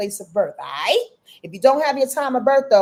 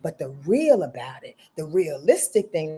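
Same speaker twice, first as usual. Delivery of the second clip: lightly voiced mom calming her child; a hint of a mother soothing; mother's voice; 5 semitones lower than usual. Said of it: "now I'm taking on my mother's voice".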